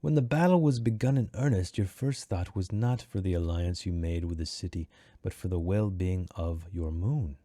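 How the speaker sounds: formal story quote, lightly acted; slowing towards the end; lightly voiced Baruch. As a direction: read as a character's measured accusation. Reading Baruch's quote aloud.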